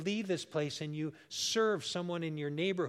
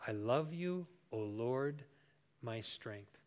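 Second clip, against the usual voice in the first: softer, gently fading prayer; prayerful; 4 semitones lower, 3 dB quieter, slower than usual. Shown as a demonstration. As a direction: pray it quietly from the heart. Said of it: "say that in your heart".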